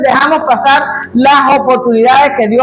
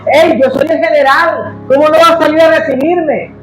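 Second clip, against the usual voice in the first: raised, entitled complaining; a proud general demanding a red carpet; arrogant demand; 4 semitones higher than usual. Acted. Naamán demands to be received like a general, raised and entitled. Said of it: "Mira lo que dijo él".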